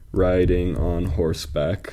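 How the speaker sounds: slow, measured scansion; metrical, deliberate pacing; syllable-counting reading. Shown as a demonstration. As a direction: draw out each syllable so it can be counted.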